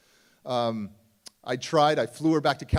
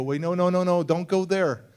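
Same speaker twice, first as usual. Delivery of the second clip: louder and higher, cutting her off; no no no, stop her short, slowing on the last words; urgent stop; 4 semitones higher, 8 dB louder than usual. Retold or imitated. Cutting off his mother on the phone, louder and higher.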